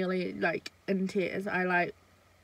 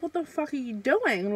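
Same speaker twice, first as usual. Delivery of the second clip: sharp, high indignant demand; angry confrontation; 4 semitones higher than usual. Retold or imitated. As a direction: confront him, outraged. Confronting him at the club.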